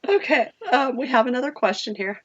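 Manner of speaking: a bit raspy, worn out; hoarse voice. Real, not acted. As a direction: voice going rough from talking. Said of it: "I'm starting to get my sexy party voice".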